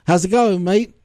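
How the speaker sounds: lightly imitated English accent. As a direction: quote him with a touch of English accent. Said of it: "with an English accent".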